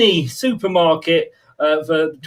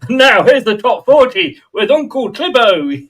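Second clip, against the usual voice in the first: a hint of a cheesy radio DJ; seventies DJ voice; 4 semitones higher, 5 dB louder than usual. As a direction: announce it like an old chart show host. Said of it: "that sounds very much like a seventies D J".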